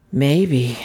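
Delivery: slow, vague concession; hesitant admission. A narrator's reading. Dazed stranger shown a gold watch, hesitantly. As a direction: admit it uncertainly. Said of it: "he admitted".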